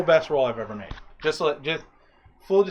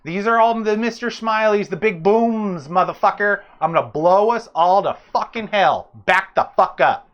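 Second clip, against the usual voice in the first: in-character threat; 3 semitones higher, 3 dB louder than usual. Acted.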